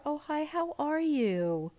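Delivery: imitating an earnest hello; sincere greeting. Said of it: "I was saying it sincerely".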